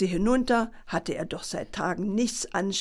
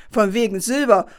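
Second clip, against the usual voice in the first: angry exclamation; 7 dB louder than usual. Acted. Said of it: "rief erzürnt".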